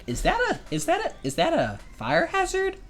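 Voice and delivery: very high squeaky panic over a fire hazard; high mock-panicked kid; mock alarm. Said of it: "I'm like".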